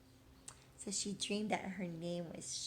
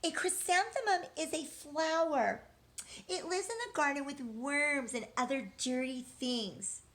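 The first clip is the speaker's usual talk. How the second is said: snide; 5 semitones higher, 3 dB louder than usual. Acted. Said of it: "Victoria raised her hand and said".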